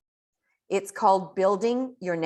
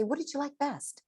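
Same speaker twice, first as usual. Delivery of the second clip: friendly question demo; 8 semitones higher, 7 dB quieter than usual. Shown as a demonstration. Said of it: "you want to say".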